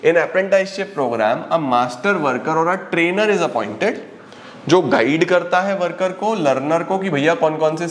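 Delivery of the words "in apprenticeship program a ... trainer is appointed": slow dictation. Shown as a demonstration. Teacher dictates definition slowly.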